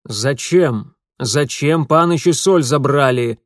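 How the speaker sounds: loud, insistent question; demanding. Acted. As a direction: demand an answer firmly. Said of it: "требовательно спросил".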